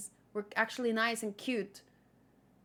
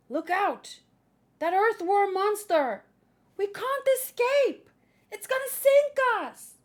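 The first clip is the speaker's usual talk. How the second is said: higher, louder panicked screams; panicked crew; 8 semitones higher, 5 dB louder than usual. Acted. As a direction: yell it like sailors about to drown.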